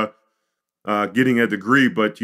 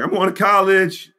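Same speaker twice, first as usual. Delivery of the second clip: higher, louder thrilled announcement; excited disbelief; 8 semitones higher, 3 dB louder than usual. Retold or imitated. Son telling mom in the car he got in, thrilled. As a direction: burst out with the big news. Crying with joy driving home.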